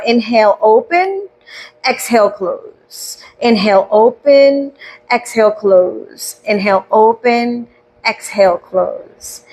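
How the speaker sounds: slow, drawn-out cues, letting the last word sink away; guided breathwork, unhurried; breathing cues. Shown as a demonstration. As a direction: pace each word to a long breath.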